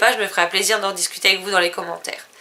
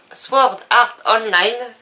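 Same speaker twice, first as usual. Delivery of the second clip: titre anglais appliqué; 5 dB louder, much slower than usual. Shown as a demonstration. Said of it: "je vais y arriver".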